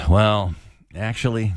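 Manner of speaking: slow, sighing correction; slow, patronizing know-it-all; condescending. Shown as a demonstration. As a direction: talk down with a weary, drawn-out start. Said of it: "say it in our most condescending way".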